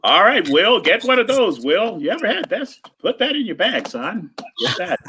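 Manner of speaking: playful mock of a generous buddy; lightly voiced older friend pushing gifts; imitating B B. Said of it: "he'll be like".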